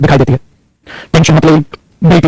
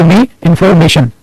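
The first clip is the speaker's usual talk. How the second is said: very slow, each word spaced out; "Give me information" read out slowly for students to copy; slow dictation; much slower than usual. Shown as a demonstration. Teacher dictating to the class, slow and deliberate. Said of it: "inform भी नहीं बोला आपने".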